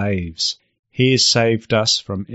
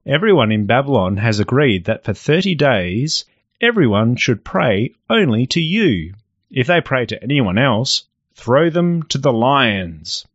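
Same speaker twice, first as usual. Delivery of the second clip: scheming courtiers; 2 semitones higher than usual. Acted. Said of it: "They bowed very low and said".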